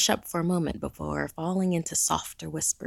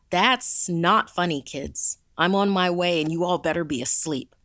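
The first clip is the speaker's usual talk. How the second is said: stern; 5 dB louder than usual. Acted. Counselor scolds kids over radio.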